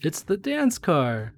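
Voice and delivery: slow, high, proud announcement; excited reveal. Acted. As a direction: present it like a big surprise. Showing off the dance car.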